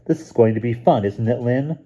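a cheerful little brother chirping; little boy. A narrator's reading. Stevie at breakfast telling his sister, in a high child's voice.

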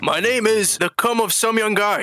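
the spy's imitation American accent; put-on American accent. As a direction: give the name in an attempted American accent. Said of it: "This is my American accent".

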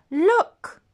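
sudden high, loud call of alarm; startled high cry. Acted. Bear spots the girl in his bed, startled high cry. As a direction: yelp it out, pointing in alarm.

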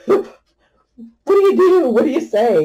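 high, loud, helpless questions; flustered disbelief. Real, not acted. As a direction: throw up the questions, pitched high. Helpless after humiliating moment.

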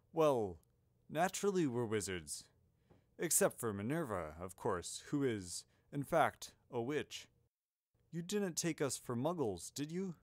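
lightly voiced old wizard, slightly taken aback; mildly puzzled grandfatherly explanation; a hint of courteous headmaster; Dumbledore.

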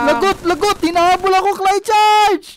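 mock panic. Chased by Titans, calling for help.

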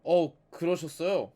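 slow, loud mock surprise; drawn-out sarcastic question. Real, not acted. Sarcastic reply to game character.

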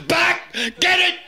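high squeaked hour back; squeaky punchline. Pretend.

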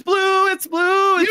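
urgent accusing. Real, not acted.

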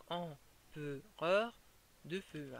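empereur stretched very slowly, rising at the end; slow, drawn-out rhythm. Shown as a demonstration. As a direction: draw out empereur slowly, then drop on de feu. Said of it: "différentes manières de dire".

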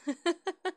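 short high rising giggle; squeaky little laugh. Real, not acted. Laughs at own joke.

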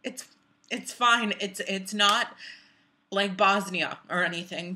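worked-up, defensive reassurance; agitated denial. Acted. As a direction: brush it off too forcefully, stumbling over repeats. Insists it is fine, upset.

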